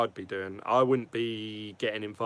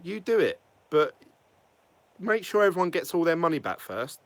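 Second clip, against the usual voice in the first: raised, heated rant; getting angry; 5 semitones higher than usual. Real, not acted. Vlogger venting at the CEOs on behalf of token holders, angrily. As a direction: pitch up and push the demands. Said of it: "I'm getting a bit angry now".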